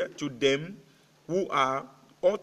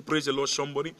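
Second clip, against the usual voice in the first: repeated call to praise; faster than usual. Real, not acted. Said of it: "I say".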